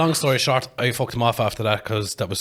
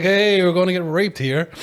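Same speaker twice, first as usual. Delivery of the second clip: mock giddy warning; 7 semitones higher, 5 dB louder than usual. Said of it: "was weak laughing".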